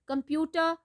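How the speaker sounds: "computer" stressed on PU; careful dictionary "computer", com-PU-ter; second-syllable stress. Shown as a demonstration. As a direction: say "computer" with the weight on its middle syllable, PU. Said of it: "second syllable".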